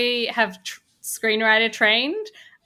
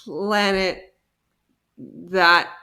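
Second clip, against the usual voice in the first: laughing; 8 semitones higher, 7 dB louder, much slower than usual. Real, not acted. Laughing at the planet joke.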